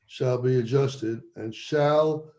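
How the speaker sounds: both shall slowed and leaned on; stress on shall. Shown as a demonstration. Lawyer reading the statute to the board, stressing shall. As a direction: give each "shall" a deliberate weight. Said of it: "and I emphasize the word shall".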